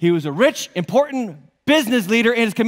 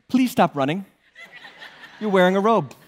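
laughing; 2 semitones lower than usual. Pretend. Mock plea at man in robe.

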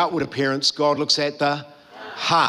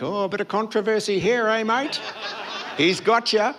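quick, hushed nosy aside; lightly voiced crowd relishing the drama; mock gossipy onlooker; 2 semitones higher, 3 dB quieter than usual.

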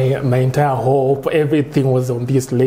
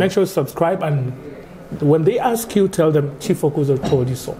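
lightly done Nigerian accent, higher; 4 semitones higher than usual. Shown as a demonstration. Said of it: "in the Nigerian accent".

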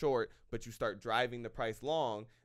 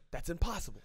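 mock disbelief; 5 semitones higher, faster than usual. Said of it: "this is their first word".

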